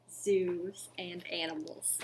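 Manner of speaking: put-on soft secret whisper to the kids. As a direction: share it like a secret. Storytime for children.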